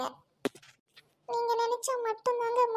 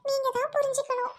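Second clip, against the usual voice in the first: crying plea; 3 semitones higher than usual. Acted. Doctor tearfully begs the bride to understand, crying. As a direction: cry out your last appeal to her.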